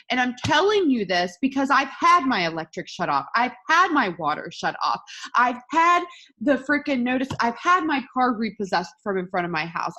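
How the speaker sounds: heated testimony, hammering each hardship; impassioned. Real, not acted. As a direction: insist you have lived it, emphatically. Heated list of own hardships.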